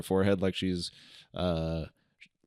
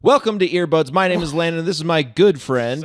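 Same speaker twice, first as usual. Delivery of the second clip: fast, loud auctioneer patter; 7 semitones higher, 4 dB louder than usual. Acted. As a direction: rattle it off like an auctioneer. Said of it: "you sound like a dang auctioneer".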